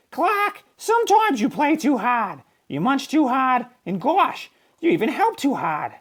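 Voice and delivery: high, kindly teacher voice; gentle teacher. A narrator's reading. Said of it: "Missus Inky Dink patted his fin".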